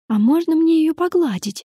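put-on high, hopeful little girl voice; little girl asking. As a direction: ask sweetly like a small child. Girl asks to pet cat.

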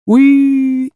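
a tiny high joyful squeak; happy turtle squeal. A narrator's reading. Turtle squeals happily at the walk invite, high squeak. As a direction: squeal with delight like a little turtle. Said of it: "запищала радостно черепашка".

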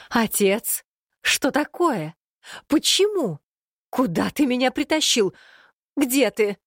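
shrill, high panicked yelling. Acted. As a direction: yell it out, high-pitched and outraged. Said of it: "вопила Алирами".

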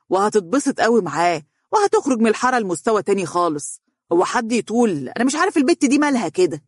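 worked up, ranting about his daughter; agitated. Acted. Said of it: "وقال بعصبية". (بعصبية وانفعال)

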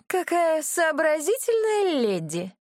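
high, slow, drawn-out disdain; пренебрежительно. Acted. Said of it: "пренебрежительно обронила". (пренебрежительно, протяжно и выше)

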